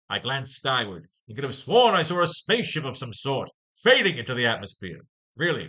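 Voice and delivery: a hint of a professor and Peter, mostly own voice; lightly voiced comic characters. Reading Cobwell and Peter's balloons aloud to viewers, lightly acted. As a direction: read the dialogue balloons with light character colour.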